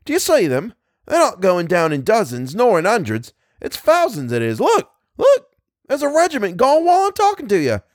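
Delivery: high, amazed soldier's yell, climbing to a peak; excited bellowing. A narrator's reading. Soldier marvels at falling regiments, bellowing excitedly. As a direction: shout in wonder to your mate, voice pitched high. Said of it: "he bellowed to the man next to him".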